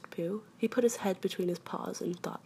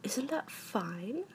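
high, slow call without volume; stretched-out, understated call down; mild drawn-out shout; 5 semitones higher, 4 dB quieter, much slower than usual. A narrator's reading. Pooh calls down from the sky, mild shout. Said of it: "shouted Winnie the Pooh down to you".

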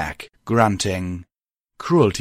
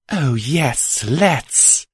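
nonchalant; 5 semitones higher, much slower than usual. Acted. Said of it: "replied nonchalantly".

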